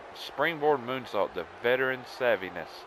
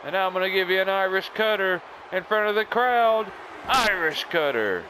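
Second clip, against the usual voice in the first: higher, building call to the crowd; showboating move call; 8 semitones higher, 4 dB louder than usual. Pretend. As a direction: announce the finisher like a showboating wrestler. Announces own finisher to the crowd.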